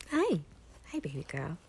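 very soft coo to the dog. Real, not acted. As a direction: coo gently to a pet. Greeting dog climbing into lap.

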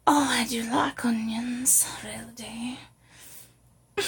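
northern English accent, lingering on onions; York accent. Shown as a demonstration. Playing someone from York who likes onions, northern accent. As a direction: answer as a local in a York accent. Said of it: "if you're from York".

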